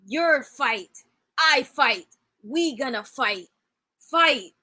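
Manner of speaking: lightly voiced dim giant, halting; mock brute talk. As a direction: imitate a man of few words, pausing between phrases. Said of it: "That's how he talks".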